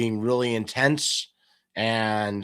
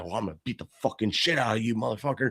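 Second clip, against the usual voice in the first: tough-guy threat; 4 dB quieter, faster than usual. Retold or imitated. Wannabe tough guy threatening a man on camera, fast mock threat. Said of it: "He's like".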